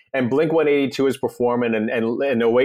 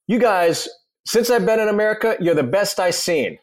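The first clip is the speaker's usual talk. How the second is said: a rock singer; 6 semitones higher than usual. Retold or imitated. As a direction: mimic a rock star handing out praise. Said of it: "He goes".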